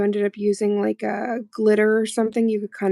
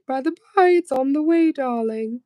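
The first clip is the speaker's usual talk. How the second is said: posh lady voice; 4 semitones higher than usual. Pretend. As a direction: play a grand lady, darling. Posh mock voice answering friend.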